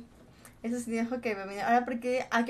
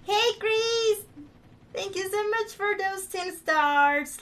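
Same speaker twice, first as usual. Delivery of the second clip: put-on English thank-you; 5 semitones higher, much slower than usual. Real, not acted.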